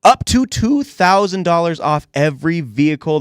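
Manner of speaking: upbeat, punchy sponsor read; radio ad read. Real, not acted. Host plugging the Subaru dealer sponsor, upbeat ad read. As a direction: sell it like a local radio sponsor spot. Reads the show's sponsor spot.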